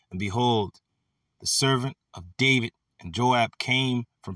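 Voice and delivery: measured Bible reading, phrase by phrase; scripture reading. Acted. Preacher reading verses to his brothers, measured scripture reading. Reads the next verse aloud.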